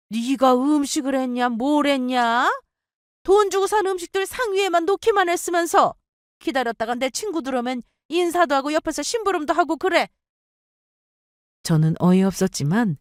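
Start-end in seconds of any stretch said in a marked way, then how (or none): 0.1-10.1 high-pitched, indignant nagging; scolding mother-in-law. Acted. Mother-in-law scolds her tired daughter-in-law for resting, high nagging scolding. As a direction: berate her in a raised pitch.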